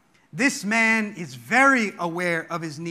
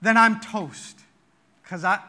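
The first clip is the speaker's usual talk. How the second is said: despairing father; 3 semitones higher, 5 dB louder than usual. Retold or imitated. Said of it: "It's almost as if he says".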